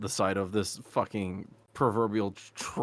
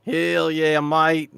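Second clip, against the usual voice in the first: louder, higher cheer; excited cheer; 6 semitones higher, 8 dB louder, much slower than usual. Acted. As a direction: whoop it. Cheering in Rufus voice.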